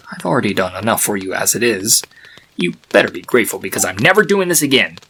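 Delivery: hushed, grudging whisper; grumbling statue voice in a whisper. Acted. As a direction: mutter it under your breath. Statue voice grumbles, warns foal.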